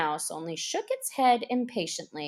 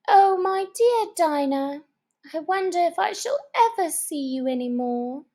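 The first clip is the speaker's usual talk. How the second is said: near tears; 7 semitones higher than usual. Acted. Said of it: "poor Alice began to cry again".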